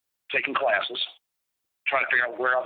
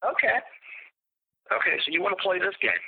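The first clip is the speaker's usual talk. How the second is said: grim resolve; 7 semitones higher than usual. Retold or imitated. Biker accepting Brian's challenge, cold resolve. Retold resolve after taunt.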